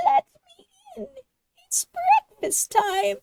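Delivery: high fast pretend girl voice; a wolf badly playing a little girl; wolf faking a girl. A narrator's reading. Wolf pretends to be Little Red outside the door, high fake voice.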